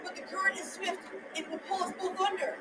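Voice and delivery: hushed, mildly fearful objection; worried hero. Acted. Jack fears swift current, hushed and worried. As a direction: object softly, with dread.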